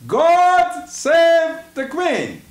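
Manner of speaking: solemn proclamation. Acted. Reading a salute text on air.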